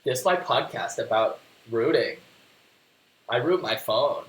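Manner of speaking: lightly voiced dopey talking dog; a hint of a dopey pet voice. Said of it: "he's still got the dopey voice".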